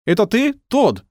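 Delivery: high called-out question; calling out. A narrator's reading. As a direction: shout it across the dark. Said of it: "крикнул один из них".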